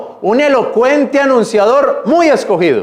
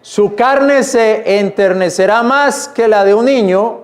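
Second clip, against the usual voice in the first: steady reading of the verse; scripture reading. Acted. Preacher reading scripture to his church, measured. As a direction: carry the verse through to its end.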